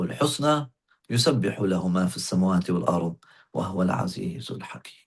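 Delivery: reciting Quran from memory; Quran recitation. Acted. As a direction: recite the holy verse in a steady, flowing run.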